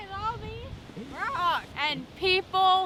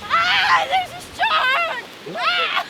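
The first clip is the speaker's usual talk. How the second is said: fake alarm; 10 semitones higher, 4 dB louder, slower than usual. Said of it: "It's a joke".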